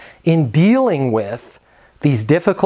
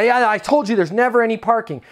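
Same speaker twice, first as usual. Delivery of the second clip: mock irritated tenant; 8 semitones higher, faster than usual. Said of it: "if you're just talking to somebody like this".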